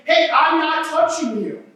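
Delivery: lightly mock the rule-dodger; mild teasing taunt. Pastor mocking people who barely keep rules, light taunt. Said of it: "walking around saying".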